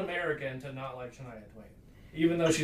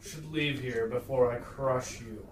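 fire giant voice; much slower than usual. Acted. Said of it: "the fire giant says".

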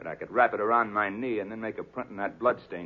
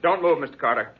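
higher, louder threat; menacing command; 5 semitones higher, 5 dB louder than usual. Acted. Killer orders Carter at gunpoint, menacing. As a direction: freeze him with the order.

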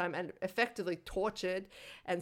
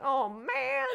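mock dismay; 5 semitones higher, 3 dB louder than usual. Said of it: "you have to be like".

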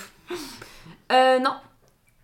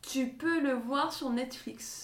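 yawning while talking; words stretched by a yawn; 4 semitones higher, 5 dB quieter, much slower than usual. Real, not acted. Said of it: "J'allais bailler encore".

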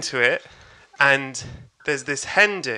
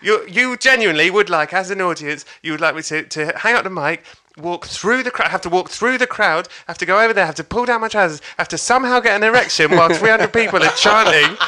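higher-pitched, building list of absurd demands; mock exasperation; 5 semitones higher than usual. Comedian lists absurd steps, exasperated.

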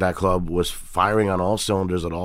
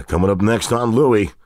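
TV announcer voice. Shown as a demonstration. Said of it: "I do the voiceover for that show".

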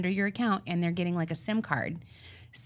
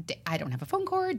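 retold panic; 10 semitones higher than usual. Retold frantic call to husband.

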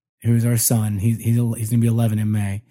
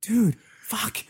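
laughing protest; 10 semitones higher, much slower than usual. Retold or imitated. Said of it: "And I'm going".

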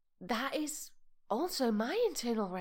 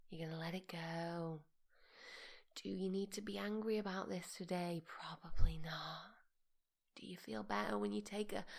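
soothing calm; 5 dB quieter than usual. Pretend. Host guiding an annoyed listener to let it go, soothing. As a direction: ease them down gently, softly.

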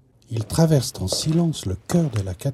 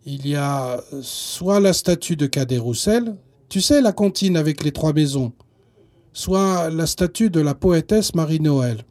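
hesitant. Acted. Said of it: "très hésitant".

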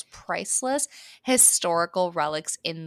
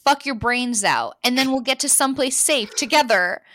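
voice breaking; 5 semitones higher, 4 dB louder than usual. Acted. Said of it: "She could feel her voice breaking".

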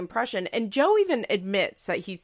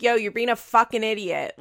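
louder, loose mock snap at a friend; heated casual insult; 5 dB louder than usual. Vlogger imitating a heated fight insult, louder. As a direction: toss the insult off in the heat of a fight. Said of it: "It's one thing if you're like".

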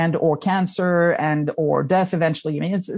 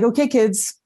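put-on a touch raised, brisk address to the kids; mock brisk call to kids; 5 semitones higher than usual. Mother opening the first family meeting with the kids, a mildly brisk call. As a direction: call the kids to order, half in jest. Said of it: "probably not on that tone".

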